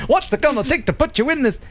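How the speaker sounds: a hint of an eager salesman; lightly voiced car salesman. Car dealer pitches a car to a buyer, mock salesman.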